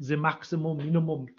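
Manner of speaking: playful German accent at an everyday pitch. Shown as a demonstration. Maths teacher repeating the theorem's name for laughs, German accent. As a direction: say it with a light put-on German accent. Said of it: "That's my best German accent".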